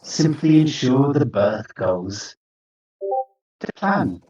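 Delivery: lightly voiced ominous creature, measured with long pauses; imperious creature. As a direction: issue commands as a grand, ominous being. Creature warns and commands players.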